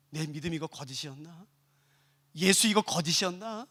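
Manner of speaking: low, soft self-questioning; inner conflict. Acted. Persecuted believer doubting their faith, hushed. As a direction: wonder it aloud as a private doubt. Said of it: "얼마나 많은 사람이 갈등하는지 몰라요".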